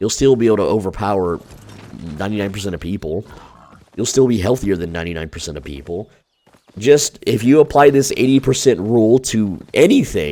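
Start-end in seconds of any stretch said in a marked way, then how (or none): 9.7-10.3 voice cracking on the word "anything". Speaker addressing viewers mid-explanation, voice cracking. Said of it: "that was a voice crack".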